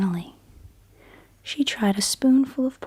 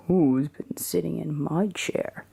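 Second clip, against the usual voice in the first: a hint of a grumpy father bear, still whispered; lightly voiced Papa Bear, gruff but hushed; big grumpy Papa Bear; 3 semitones lower than usual. Papa Bear grumbling about his porridge, a mild whispered growl. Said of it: "he cried in his big grumpy voice".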